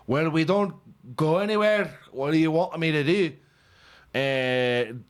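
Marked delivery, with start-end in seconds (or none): 0.1-3.3 put-on Scottish voice, a bit higher; mock a Scot defending himself. Mocking inbred Scot excuse.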